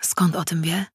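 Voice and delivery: breathy whispered thought. A narrator's reading. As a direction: whisper it to yourself, unvoiced.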